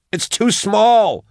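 high, drawn-out yell; desperate yelling. A narrator's reading. Max yells down from inside the flue, desperate yell. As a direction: yell it slowly in panic. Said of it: "he heard her yelling".

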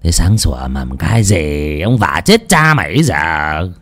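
low, slow sleepy grumble; grumbling. Acted. Master grumbling at the cook through the door, low and sleepy. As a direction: grumble as if just woken. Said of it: "miệng lầu bầu".

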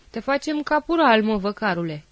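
a fellow officer mimics him for laughs; mocking parody. Officer mocks the soldier in a jeering parody. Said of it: "încercă unul să-l parodieze".

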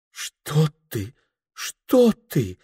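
high, flustered alarm; a frightened, embarrassed protest; startled. Acted. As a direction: fluster as if caught off guard. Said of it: "смутилась, испугалась хозяйка".

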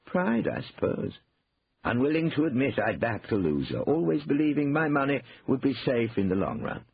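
a touch of sheepish regret; Cornelius, rueful. A narrator's reading. Brother admits pride kept him invested, mildly rueful.

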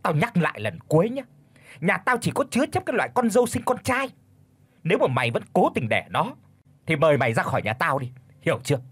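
stern growl. Acted. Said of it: "gằn giọng".

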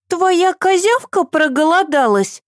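put-on high, concerned little girl; worried child. A narrator's reading. Eva asking Asya about the baby, worried. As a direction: fret like a small child. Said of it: "спросила она обеспокоенно".

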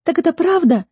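high, pressing disbelief; anxious high-pitched question; alarmed question. Acted. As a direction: demand the truth in shock. Sister alarmed by the rumour.

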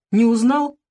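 put-on a cheerful young soldier calling; wounded soldier friend. A narrator's reading. Wounded friend calls from hospital.

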